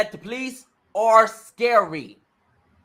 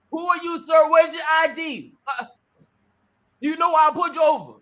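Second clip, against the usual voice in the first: mock police officer; 4 semitones higher than usual. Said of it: "they wanna know who they're talking to".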